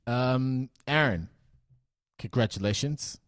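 put-on a half-hearted American journalist accent, pitched a bit up at the start; weird American accent. Podcast host as a journalist questioning the new owner, in a mild American accent. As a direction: play a press reporter with a loose, put-on American accent. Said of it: "talking in a sort of weird American accent".

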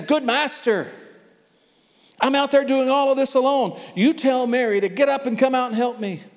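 high, loud, exasperated complaint; bursting out at the teacher, fed up; exploding Martha. Acted. Martha storms in on Jesus, furious and loud. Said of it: "she just explodes".

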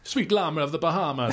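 a terrible Jamaican accent impression. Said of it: "This is a terrible Jamaican accent".

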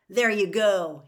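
loud bitter taunt; sneering shout; angry shout. A narrator's reading. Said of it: "Harry said".

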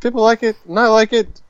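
high, light American accent impression; imitating Tom Holland's American accent. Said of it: "I'm doing his American accent".

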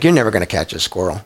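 low, fast mock scolding of a pet; teasing the dog. Pastor telling his schnauzer off, low and fast. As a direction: brush off the dog's hopes, low and quick.

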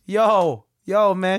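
hammed-up young dude hype; Gen Z kid voice. Imitating coworker's hyped Gen Z slang. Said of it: "and he talks like this".

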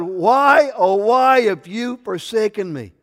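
loud, high anguished cry; Jesus. Retold or imitated. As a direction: wail the question out to heaven. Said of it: "And he cried out".

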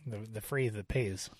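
put-on a try at a Dutch accent. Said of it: "I think it's Dutch".

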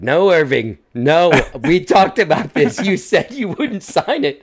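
high, loud, drawn-out protest; mock scolding wife. Wife overheard objecting to her husband signing, high mock scolding. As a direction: scold him as an imitated exasperated wife.

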